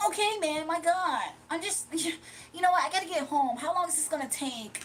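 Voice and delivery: mock nervous buyer wanting to go home; imitating Dimitri questioning a dealer; whiny Dimitri. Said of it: "That's Dimitri, y'all".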